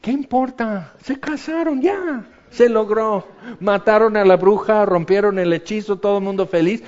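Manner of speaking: high, loud exasperated scoff; exasperated mock. Preacher mocking the fairies' dress quarrel, exasperated. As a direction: scoff at the fuss over a dress color. Mocking the fussy fairy-tale ending.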